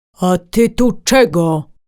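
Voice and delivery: slow, growling delivery. The deer, emerging from the bushes, confronts the raccoon: growled. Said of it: "warknął".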